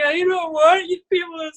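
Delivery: mock a child's protest, trailing into blahs; upset kid. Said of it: "they were so upset".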